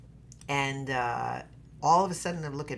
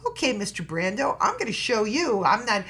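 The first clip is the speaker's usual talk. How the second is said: raised, louder voice building with resolve; defiant; 7 semitones higher, 7 dB louder than usual. Retold or imitated. Actress answers Brando's challenge about insecurity, defiant. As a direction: take up the challenge, louder and higher.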